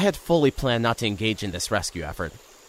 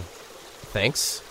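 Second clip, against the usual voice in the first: whispered thanks; 6 dB quieter than usual. Acted. Breathy thanks.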